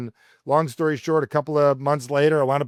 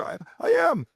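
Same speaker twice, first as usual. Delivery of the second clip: halting admission; 11 semitones higher than usual. Retold or imitated. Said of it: "someone's saying".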